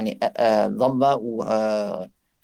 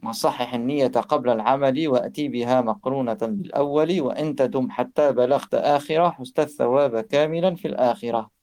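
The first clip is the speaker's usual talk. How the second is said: quick, rhythmic chanting of Arabic verse; poem recitation; much faster than usual. Shown as a demonstration. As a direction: recite the verses in a steady, flowing cadence. (récitation rapide d'un poème arabe)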